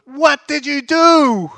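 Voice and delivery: alarmed wife. Retold or imitated. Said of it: "the first words out of her mouth is".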